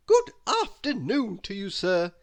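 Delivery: a touch of a courteous clerk greeting a guest; hotel manager. A narrator's reading. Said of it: "he said".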